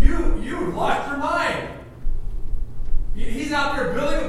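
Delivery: high, scoffing neighbor voice; high mocking neighbors. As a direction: sneer at the crazy builder. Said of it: "the neighbors around going".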